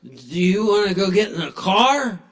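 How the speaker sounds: yelping high cry then eager question; excited dog. Retold or imitated. Dog yelping with joy at going outside. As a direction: burst out in thrilled squeal. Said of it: "the dog's like".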